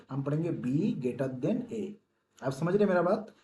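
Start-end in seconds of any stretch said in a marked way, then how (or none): 0.5-1.9 slow, deliberate reading. Shown as a demonstration. Teacher showing students the right way to read, slow and deliberate. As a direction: spell out "B greater than A" slowly, word by word. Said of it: "हम क्या पढ़ेंगे".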